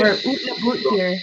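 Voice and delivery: put-on Canadian accent. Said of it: "my Canadian accent".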